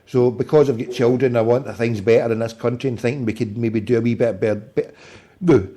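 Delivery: talking without dentures; gummy speech, teeth out. Real, not acted. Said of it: "I'll go and put my teeth in".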